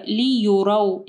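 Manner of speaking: लियुरौ with a clear "yu" in the middle; लियुरौ, rounded u after y; correct vowel. Shown as a demonstration. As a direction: say "li-yu-rau" for लियुरौ. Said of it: "इसको लियरौ नहीं पढ़ना".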